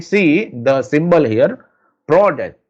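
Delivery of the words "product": "product" with the first syllable pitched up; stress on PRO. Shown as a demonstration. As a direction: lift "pro" in "product", then drop. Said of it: "I am stressing the word pro".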